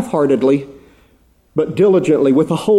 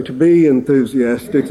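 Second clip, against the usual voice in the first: laughing repeat; 3 semitones lower than usual. Retold or imitated. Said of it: "We'd say".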